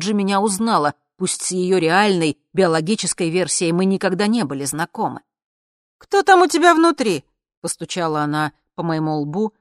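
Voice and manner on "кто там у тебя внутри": much higher, loud startled question; shocked cry. Acted. Lina knocking on the visitor's forehead, shocked cry. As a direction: demand it in alarm.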